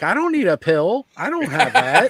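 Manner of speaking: confused caller. Retold or imitated. Caller mishears the name Oz.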